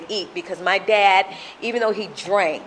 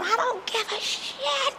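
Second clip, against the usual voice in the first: imitating dismissive dad; 7 dB quieter than usual. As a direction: mimic a father callously sending kids away. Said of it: "And he said".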